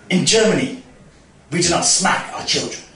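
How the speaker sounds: lightly imitated German accent; measured reproach with a hint of German; German guy. German guy confronts the mum, light mock German accent. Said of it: "the German guy".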